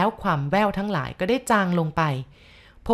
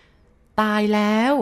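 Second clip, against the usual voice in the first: very slow, drawn-out eerie call; louder insistent voice; 3 semitones higher, 5 dB louder, much slower than usual. A narrator's reading. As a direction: stretch it out long and insistent. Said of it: "เสียงนั้นดังลอดเข้ามาอีกและดังกว่าเก่า". (เสียงผู้หญิงย้ำดัง ลากยาวช้ามาก)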